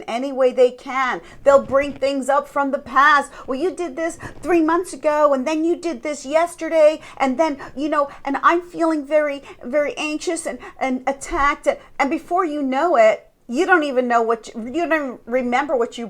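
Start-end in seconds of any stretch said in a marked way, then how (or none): 3.5-11.7 higher-pitched mock tirade of grievances; berating. Narcissist dragging up the past, mock berating. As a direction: pile up old complaints, imitating a narcissist. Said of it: "they'll berate you and just attack you".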